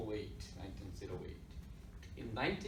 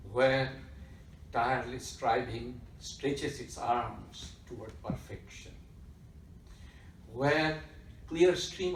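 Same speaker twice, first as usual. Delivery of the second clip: poem recitation; slower than usual. Real, not acted. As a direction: recite it slowly, phrase by phrase, with long pauses. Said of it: "first recite that or read that".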